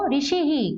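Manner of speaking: ऋषि ही with a final "hi" syllable; visarga echoed as hi. Shown as a demonstration. Teacher modelling the word for students, visarga echoed as hi. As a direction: end ऋषि ही on an audible hi. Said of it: "क्या पढ़ेंगे इसको".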